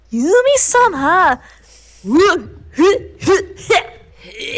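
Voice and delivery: put-on very high, loud girly squeal; super girly voice. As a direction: squeak it out like a cute girl. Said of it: "a super girly voice".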